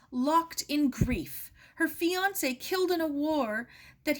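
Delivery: high, loud, grief-torn shouting; a father's loud, despairing rant at the table; anguished fury. A narrator's reading. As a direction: rage at your own helplessness.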